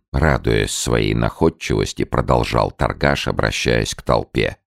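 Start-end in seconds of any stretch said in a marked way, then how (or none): none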